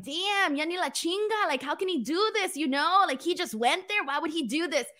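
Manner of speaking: voiced exasperated reaction; exasperated disbelief. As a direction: react in mock dismay at someone's blunder. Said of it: "you're just like".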